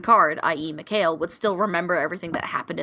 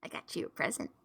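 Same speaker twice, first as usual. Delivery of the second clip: near-whisper, very soft; soft, airless aside; hushed offering; 12 dB quieter, faster than usual. Acted. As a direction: whisper it like a secret gift. Character offers gift to waking friend.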